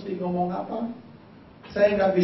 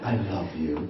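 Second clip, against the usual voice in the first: voice of God; 12 semitones lower, 4 dB quieter, slower than usual. Pretend. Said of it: "siapa tahu Tuhan telepon saya".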